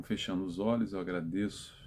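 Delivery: low, soft prayer voice; closing prayer. Real, not acted. Speaker leading listeners in thanks to God at the close, softly prayerful.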